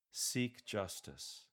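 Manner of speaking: "seek justice" slowly, falling at the end; downward lilt. Shown as a demonstration. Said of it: "with a downward lilt".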